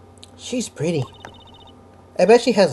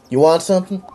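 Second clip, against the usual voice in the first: husky voice. Acted. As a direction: give it a husky rasp. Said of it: "That's a husky voice".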